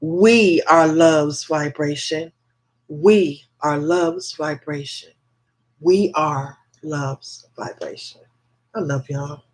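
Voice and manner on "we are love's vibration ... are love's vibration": slow, deliberate affirmation chant, firm at first; meaning it. Shown as a demonstration. Host urges followers to mean it, slow heartfelt chant. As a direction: draw out each phrase with conviction. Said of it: "Say it like you mean it".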